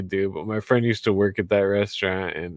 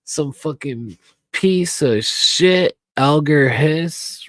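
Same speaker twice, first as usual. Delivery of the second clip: slow, loud, higher-pitched angry outburst; angry slow yell; 5 semitones higher, 5 dB louder, slower than usual. Real, not acted. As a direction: spit the name out in fury. Drunk rant against Alger Hiss.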